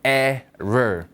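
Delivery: "error" drawn out slowly in English, falling at the end; English pronunciation. Shown as a demonstration. Teacher repeats the word for learners, slow English "error". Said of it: "발음 따라해 볼게요".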